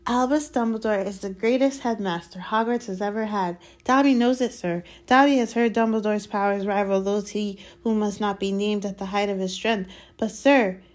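high, eager elf voice; earnest house-elf. Acted. Dobby praising Dumbledore to Harry, earnest.

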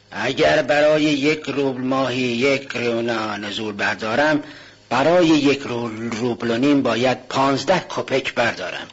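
put-on old pawnbroker counting. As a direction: count the kopecks out grudgingly. Pawnbroker reckons the interest.

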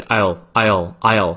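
I'll squeezed into one syllable, "aisle"; quick contraction. Shown as a demonstration. Teacher showing fast speech, I'll contracted to one syllable. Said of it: "念快一些就是".

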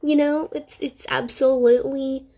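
sarcastic gushing with a pause before the punchline. Real, not acted. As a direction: lay on the sarcasm with slow emphasis. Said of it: "It's called sarcasm".

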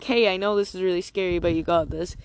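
a light touch of reassurance; supportive friend. Retold or imitated. What friends should have told the scared traveller, mildly reassuring. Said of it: "instead of being like".

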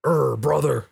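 lightly mimicked hearty grunt; a hint of imitated movie-style buddy; white handshake buddy. White people shaking hands like in movies, lightly mimicked. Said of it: "how white people shake hands like this".

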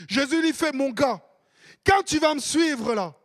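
loud, high, shouted preaching; full-force preaching. Acted. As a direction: thunder it out to the whole congregation.

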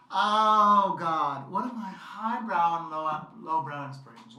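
put-on loud, showy old-timey announcer. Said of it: "I like doing this old-timey voice".

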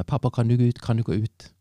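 imitating her yelling, mildly loud; retold shout. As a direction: replay the daughter's yell at dad, half-volume. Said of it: "og skrek mot henne". (halvveis gjengitt rop)

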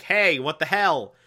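mild mock confrontation. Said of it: "he confronts Cameron like".

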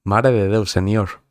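lightly imitated Catalan accent; rough Catalan accent imitation; Catalan accent attempt. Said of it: "qué mix acabo de hacer".

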